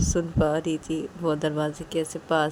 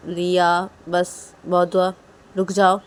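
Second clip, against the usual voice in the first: slow, louder, firm order; firm command; 7 dB louder, slower than usual. Acted. Rui telling Liya to stop kissing, firm and louder. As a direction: call a halt, word by word. Mother stops the child's frantic kissing.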